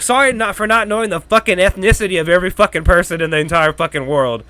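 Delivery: over-apologize to nitpickers, then ease down; sarcastic rant winding down; sarcastic apology. Retold or imitated. Sarcastic retort to online critics.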